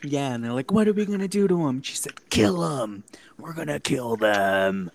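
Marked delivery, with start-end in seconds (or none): 0.7-1.8 high, loud, fast group panic; acted agitated question. Acted question of the bus crowd. 2.3-4.9 loud, theatrical vengeful order; rally the troops with a hammed-up threat; acted rallying cry.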